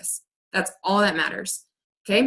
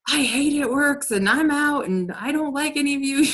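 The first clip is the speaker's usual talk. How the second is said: mock complaint; 5 semitones higher than usual. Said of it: "she was like".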